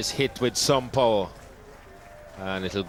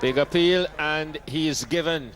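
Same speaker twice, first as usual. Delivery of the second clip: high, loud call of the wicket; excited commentary call; 8 semitones higher, 4 dB louder than usual. Real, not acted. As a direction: call the appeal with a jolt of excitement. Wicket appeal called live.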